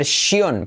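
"shion" with a full Spanish "yon" diphthong; wrong ending. Retold or imitated. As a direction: mimic the learner's error "shion", pronouncing i and o. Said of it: "esas palabras que acaban en tion".

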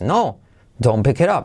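"No, don't pick it up" run together with a native up-and-down tune; connected, melodic "don't pick it up"; natural intonation. Shown as a demonstration. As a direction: say "No, don't pick it up" as one flowing reply. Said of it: "luego ya con entonación".

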